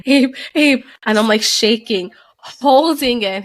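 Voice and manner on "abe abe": raised, higher-pitched urgent call; retold calling to rouse a sleeper; urgent wake-up call. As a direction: call the name to wake him. Waking her sleeping partner.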